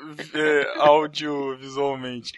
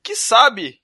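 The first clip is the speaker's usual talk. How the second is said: televangelist preacher voice; Edir Macedo; 7 semitones higher than usual. Pretend. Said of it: "você tá falando igual Edir Macedo".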